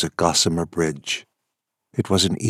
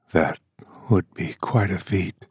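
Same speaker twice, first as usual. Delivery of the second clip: husky. Acted. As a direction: say it huskily. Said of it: "he said huskily".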